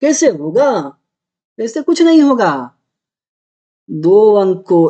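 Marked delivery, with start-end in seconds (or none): 0.0-0.7 teacher imitating a confused pupil; mock student complaint. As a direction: play a lightly voiced overwhelmed student. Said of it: "और बोलो".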